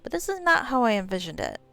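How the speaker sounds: understated, weary drow complaint; exasperated drow. Acted. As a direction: lament politely as a let-down drow. Voices exasperated drow to gnome.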